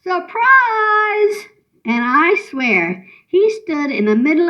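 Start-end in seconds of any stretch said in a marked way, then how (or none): 0.0-1.5 high, drawn-out gleeful call; high-pitched mock yell, little added volume; yelled surprise. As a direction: sing out the surprise, pitch high then falling. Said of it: "I yelled".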